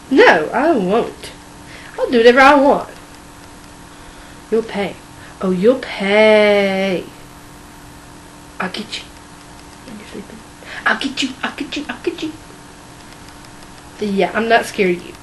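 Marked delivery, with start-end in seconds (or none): 4.5-12.3 soft sinister vow; creepy whispered threat. Acted. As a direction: hiss it like a creepy stalker.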